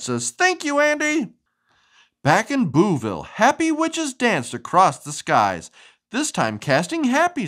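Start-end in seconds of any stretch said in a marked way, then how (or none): 0.3-1.3 note read aloud. Acted. Reading a note in picture.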